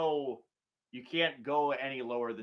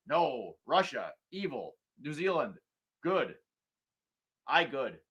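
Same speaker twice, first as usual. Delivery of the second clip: very slow, halting caveman talk; mock caveman Joe; slower than usual. Host mocking Uncle Joe's simplistic line on Russia, slow caveman talk. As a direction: spell out good and evil like a caveman.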